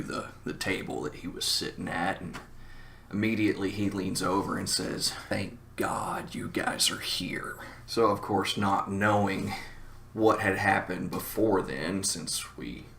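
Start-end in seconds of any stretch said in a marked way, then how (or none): 5.3-7.6 hushed, slow relief; relieved fright. Retold or imitated. Scared friend to his late-arriving bandmates, hushed relief. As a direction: whisper it slowly, as if scared.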